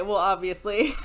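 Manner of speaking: dry, laughing "obviously"; sarcastic obviously. Real, not acted. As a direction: toss off "Well, obviously" with a snort of laughter. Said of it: "I don't know why I said it like that".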